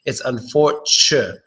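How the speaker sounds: slow syllable-by-syllable unfortu-; slowed, broken off. Shown as a demonstration. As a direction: ease into unfortu- slowly, then stop. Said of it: "it's not unfortunately or unfortunately".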